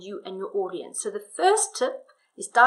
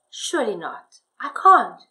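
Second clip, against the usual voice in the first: own voice in dialogue; 7 dB louder than usual. Shown as a demonstration. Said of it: "Can you see how that works?".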